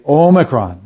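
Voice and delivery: Omicron said with a long O, "OH-mi-cron"; mocking the long O in Omicron; wrong pronunciation. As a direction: imitate people saying Omicron with a long O.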